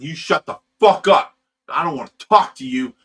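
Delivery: loud, furious yelled put-down; roaring at the guy in the club; angry shout. Retold or imitated. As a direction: blast him to shut up. Retold yelling at the guy.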